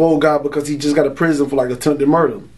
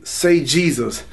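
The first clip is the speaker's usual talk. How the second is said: a steady voice cutting through panic; calm inner voice; much slower than usual. Retold or imitated. The voice in his head guiding him, slow and calm. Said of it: "in my head, I would hear say".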